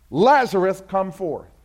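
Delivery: a crisp, direct command; clipped and to the point; Jesus repeating the call, short and direct. Shown as a demonstration. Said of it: "Short, sweet, direct".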